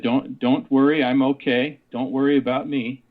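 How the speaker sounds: lightly imitated Norwegian accent, a gentle lilt. Man in the coffin reassures a boy at his funeral, light Norwegian accent. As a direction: give a hint of an old Norwegian man's accent. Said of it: "in his Norwegian, uh, uh, accent, heavy accent".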